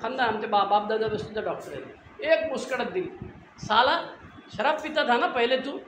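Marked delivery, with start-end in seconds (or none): 3.6-5.8 angry doctor scolding. Retold or imitated. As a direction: bark it at the patient like an irritated doctor. Dentist scolds patient after slap.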